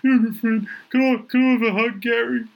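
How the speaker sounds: high pleading ask for a hug; lightly voiced grateful friend; Billy's voice. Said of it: "He goes".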